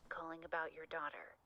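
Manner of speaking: filtered like a call on a telephone; tinny talking telephone. Acted. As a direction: voice through a phone line. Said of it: "we've only got the phone voice on the phone bits".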